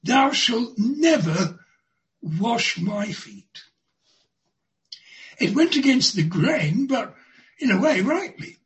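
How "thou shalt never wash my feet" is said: mild indignation. Acted. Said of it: "Peter burst with indignation".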